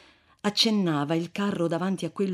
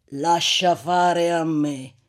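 slow confident promise; 4 dB louder, slower than usual. Acted. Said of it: "gli disse un monatto".

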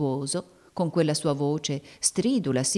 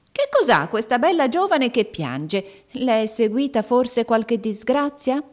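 put-on higher, slow, shrill and coaxing old woman; shrill caressing old woman; 7 semitones higher, 5 dB louder, slower than usual. Old woman sweet-talks the weeping girl, shrill and caressing. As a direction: coax the crying girl with a sugary shrill voice. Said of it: "con voce stridula e carezzevole".

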